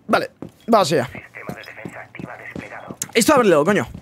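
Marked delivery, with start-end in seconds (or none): 3.1-3.9 whisper. Real, not acted. Mid-round quiet instruction.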